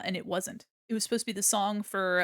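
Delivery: normal talking voice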